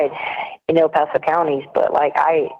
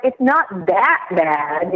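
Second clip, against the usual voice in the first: mimicked reassurance; much slower than usual. Mimicking people's annoying empty reassurance.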